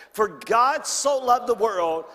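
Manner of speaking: reading John three sixteen aloud together; recited scripture together. Real, not acted. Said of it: "Let's say it together".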